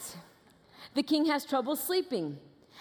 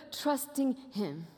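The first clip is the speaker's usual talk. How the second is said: slow and softer, gently laying it down; soft, slow reassurance; 4 dB quieter, much slower than usual. Real, not acted. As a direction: let the words settle, tender and unhurried. Preacher urging faith in God.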